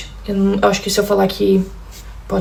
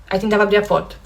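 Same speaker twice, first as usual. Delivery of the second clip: usual speaking voice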